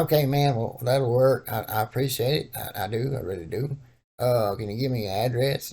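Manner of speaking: prank caller in a put-on old man voice; disguised voice calling the cousin about the couch; old black man voice. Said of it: "tried my best to do an old black man voice".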